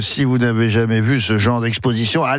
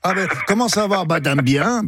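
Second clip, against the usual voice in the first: Gallo-speaking Breton; 6 semitones higher than usual. Retold or imitated. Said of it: "c'est ah dame".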